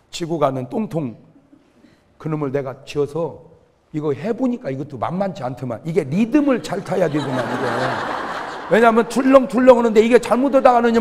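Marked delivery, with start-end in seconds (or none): none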